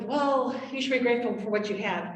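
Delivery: quick brushing-off reply; dismissive. Shown as a demonstration. Parent brushing off an angry child, dismissive. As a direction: wave the feelings away fast. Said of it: "That doesn't show them anything about their emotions".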